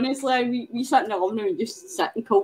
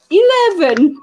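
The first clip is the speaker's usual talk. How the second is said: a touch higher and louder, Scottish "Eleven" with rolled r-less vowels; mock Scottish lift pushing "Eleven" at the lift; 8 semitones higher, 5 dB louder, slower than usual. Retelling Scots in a lift, mock Scottish "Eleven". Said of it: "the way we say eleven".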